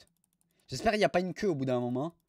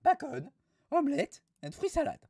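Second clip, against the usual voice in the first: mock French-English; 9 semitones higher than usual. Reads English menu, Frenchified.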